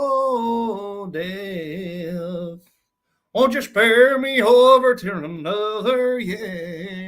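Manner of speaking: sung line in a Southern accent. Shown as a demonstration. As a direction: croon it with a Southern twang. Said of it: "You don't gotta do it in a Southern accent".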